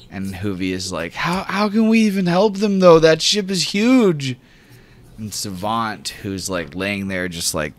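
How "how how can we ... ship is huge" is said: higher, louder worried voice; high worried companion; worried question. Acted. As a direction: ask it like the task is hopeless. GM voices Hoovy.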